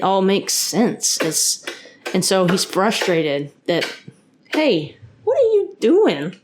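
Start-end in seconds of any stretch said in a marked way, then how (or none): 4.5-6.4 high called-out question; calling out to son. Real, not acted. Calls to his son mid-recording.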